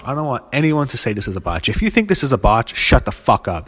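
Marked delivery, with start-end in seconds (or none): 1.7-3.7 angry. Real, not acted. Furious rant at fans.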